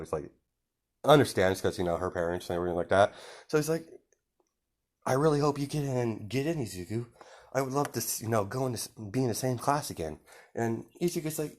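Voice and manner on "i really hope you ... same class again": put-on a soft, slightly raised voice for a friendly girl; gently hopeful, lightly acted; lightly voiced hopeful classmate. Momo hoping Izuku gets into her class, softly hopeful.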